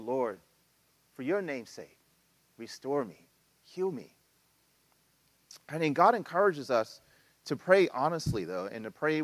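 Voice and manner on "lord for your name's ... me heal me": kingdom-centered lament prayer. Shown as a demonstration.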